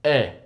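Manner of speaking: "E" said as a short pure "eh"; Spanish E sound. Shown as a demonstration. Teaching Spanish vowels, "E" pronounced eh. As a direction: say "E" like the vowel in "bet". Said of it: "E's in Spanish are pronounced as".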